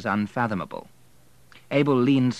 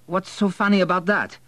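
high, loud, stung question; embarrassed indignation; 11 semitones higher, 5 dB louder than usual. A narrator's reading. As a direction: demand it, stung and flustered.

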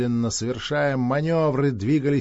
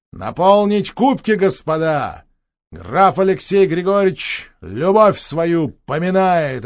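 rousing toast; 4 semitones higher, 6 dB louder, slower than usual. Acted. Toast to officers.

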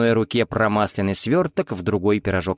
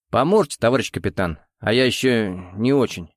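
mumbling. Acted. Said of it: "промямлил он".

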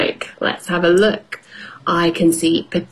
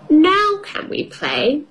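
put-on high little girl voice; child voice; 8 semitones higher than usual. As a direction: squeak it like a small piglet. Peppa voiced in story.

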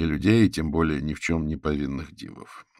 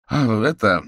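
higher, louder pleased reply; 7 semitones higher, 8 dB louder, slower than usual. A narrator's reading. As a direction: answer with a touch of delight. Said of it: "обрадовался Манчинский".

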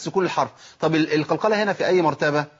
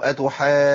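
"أتحاجون" with a hard shove on the jim; long madd ending in a pressed jim in "أتحاجون"; wrong forceful stress; 3 dB louder than usual. Shown as a demonstration. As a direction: lean heavily into the jim of "أتحاجون". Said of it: "ده خطأ، او".

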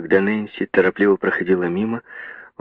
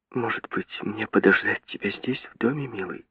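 soft, hushed asking; the girl whispers to the father, asking to stay; 3 semitones higher, 7 dB quieter than usual. A narrator's reading. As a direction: ask under her breath. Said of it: "спросила она шёпотом".

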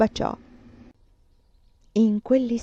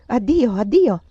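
calling farewell; 2 semitones higher, 6 dB louder, slower than usual. Acted. Farewells in the cold night.

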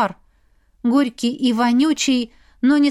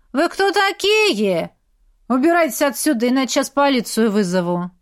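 put-on cheeky teen; 2 semitones higher than usual. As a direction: talk down to them like a brat. Rude teen threatens visitors.

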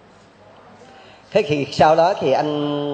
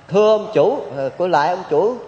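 higher, louder call to the master; 4 semitones higher than usual. Acted. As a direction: shout up to the rich man at the window. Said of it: "mới la to lên".

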